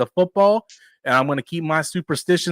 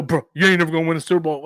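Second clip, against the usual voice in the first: rapid dismissal; much faster than usual. Retold or imitated. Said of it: "for Danny just to come out and go".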